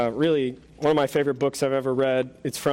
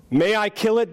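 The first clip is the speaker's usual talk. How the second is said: unearthly voice; 4 semitones higher than usual. Acted. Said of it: "the angel replied".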